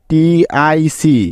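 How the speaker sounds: letters drawn out one by one; slow spelling. Shown as a demonstration. Teacher spelling for the class, slowly. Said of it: "spelling out the syllable".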